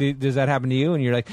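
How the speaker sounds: ordinary talk, nothing marked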